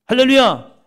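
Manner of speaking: high, loud ringing cry of praise; loud hallelujah. Real, not acted. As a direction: lift the congregation with it. Preacher exclaims to congregation. (힘찬 할렐루야 외침)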